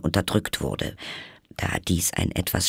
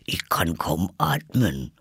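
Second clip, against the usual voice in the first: slow, put-on Dormouse complaint; lightly voiced Dormouse; 3 semitones lower than usual. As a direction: grumble slowly as a little creature, lightly played. Narrator plays Dormouse.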